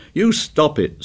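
high, shrill protest. A narrator's reading. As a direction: cut Ralph off in a high voice. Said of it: "said Piggy shrilly".

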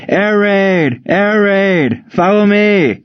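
high-pitched alarm call, drawn out; urgent yell. A narrator's reading. Young soldier warns the barracks of an air raid, urgent yell. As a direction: call out the warning, pitched right up. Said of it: "ducked his head into the barracks and yelled".

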